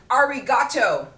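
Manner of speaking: put-on gringo-ish Japanese accent. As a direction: imitate a bad American accent in Japanese. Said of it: "spoke in this weird gringo-ish accent".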